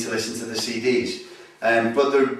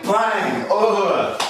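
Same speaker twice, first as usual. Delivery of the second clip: higher-pitched bang, then a grunt; imitated impact; 6 semitones higher than usual. Shown as a demonstration. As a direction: act out the hit with a grunt. Acting out a takedown hit.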